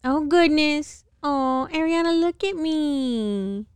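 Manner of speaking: high, slow, drawn-out dismay; exasperated. Real, not acted. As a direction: plead in exasperation. Exasperated at streaky face paint.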